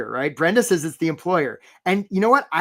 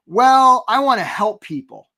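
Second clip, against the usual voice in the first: vague job seeker; 6 semitones higher, 7 dB louder, slower than usual. Retold or imitated. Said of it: "the person will say".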